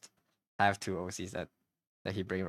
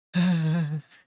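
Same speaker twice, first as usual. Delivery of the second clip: burp; 8 semitones higher, 9 dB louder than usual. Real, not acted. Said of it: "I'm burping".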